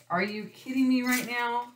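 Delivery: high, loud thrilled disbelief; can't believe her luck; excited disbelief. Retold or imitated. Thrilled at the puppy offer, high and loud.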